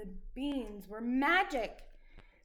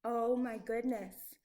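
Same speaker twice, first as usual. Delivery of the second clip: alarmed giantess. Acted. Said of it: "cried the giantess".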